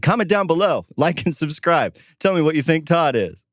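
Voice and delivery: mock a YouTuber begging for comments; YouTuber sign-off. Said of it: "I almost said".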